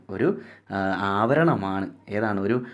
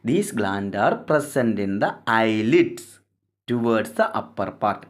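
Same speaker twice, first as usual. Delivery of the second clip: each English word read out slowly for notes; slow dictation; much slower than usual. Shown as a demonstration. Teacher dictating the textbook line to students, very slow and deliberate.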